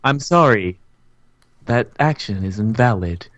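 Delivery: lightly voiced system refusal; measured, hint of a machine voice; computer error message. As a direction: announce it like an automated program. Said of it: "has stopped working".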